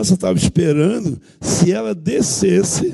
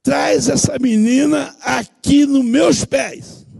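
commanding order; 7 semitones higher, slower than usual. Retold or imitated. Commanding demon, continues shout.

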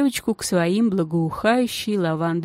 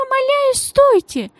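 very high pleading cry; lady pleading after the girl in a very high voice; thin desperate cry; 5 dB louder than usual. A narrator's reading. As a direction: beg her to stop, thin and frantic. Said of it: "тонкий отчаянный крик".

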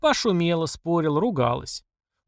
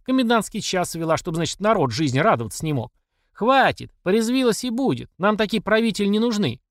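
lightly voiced old townswoman, indignant and higher; old woman haranguing; 6 semitones higher than usual. A narrator's reading. Old mamasha rails at the crowd, mildly indignant. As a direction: scold the absent ruler before the crowd.

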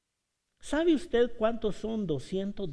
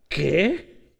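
shocked what; 6 dB louder than usual. Shown as a demonstration. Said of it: "no es lo mismo".

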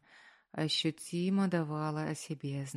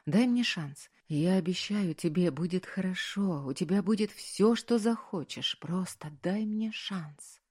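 ordinary delivery, nothing marked

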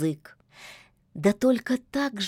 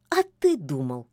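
lower, scoffing cat voice; snorting; 5 semitones lower than usual. A narrator's reading. Cat Bayun scoffs at Koschei, lower and dismissive. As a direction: scoff at his naivety. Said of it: "фыркнул Баюн".

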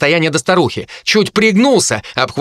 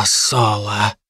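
a low, quiet, hissing hint of the harpy; 5 semitones lower, 4 dB quieter than usual. Harpy Kai addresses Solo quietly, low harpy voice. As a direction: drop low and soft on the name.

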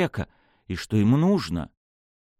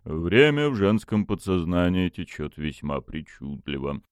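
dark god voice; 5 semitones lower than usual. Acted. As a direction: speak down to a mortal.

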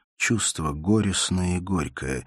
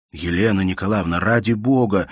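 louder urgent plea; pleading urgently; 3 semitones higher, 7 dB louder than usual. A narrator's reading. Bersenev pleads over sobbing Elena, urgent and louder. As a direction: beg her to calm down. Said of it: "твердил над ней Берсенев".

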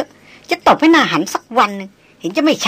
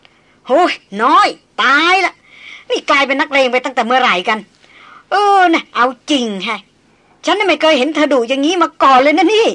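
amazed teasing; 5 semitones higher, 6 dB louder than usual. Acted. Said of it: "หัวเราะลั่น".

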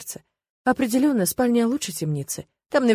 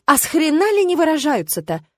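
mock trolling; 8 semitones higher, 4 dB louder than usual. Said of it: "его потроллить".

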